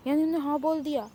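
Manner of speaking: can't believe the news; shocked disbelief. Acted. Friend hears the boy agreed and blurts in shock, fast.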